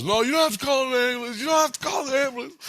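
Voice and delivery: put-on high, fast old man protesting. Narrator mimicking the injured old man, high and fast. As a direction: squeak out the old man's refusal in a high voice.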